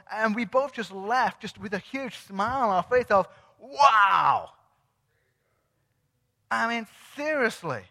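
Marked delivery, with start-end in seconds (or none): 3.6-4.5 big, loud, drawn-out exclamation; retold amazement. Two church visitors walking away from her, amazed. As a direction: let the wonder burst out loudly.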